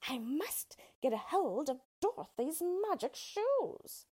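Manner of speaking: high, slow, breathy witch plotting; scheming witch. Acted. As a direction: plot it under her breath as the witch. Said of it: "the witch said to herself".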